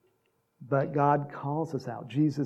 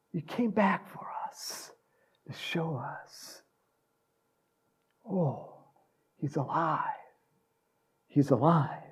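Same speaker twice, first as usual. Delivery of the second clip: soft, hushed wonder; awed tenderness; 4 dB quieter, slower than usual. Acted. Preacher as disciples seeing Jesus returned, quietly awed. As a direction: let it sink in quietly.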